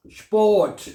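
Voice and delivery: स्पोर्ट said "shport" with a hard final t; German pronunciation demo. Shown as a demonstration. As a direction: model स्पोर्ट with a clean "shp" start. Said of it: "ये क्या लफ्ज है".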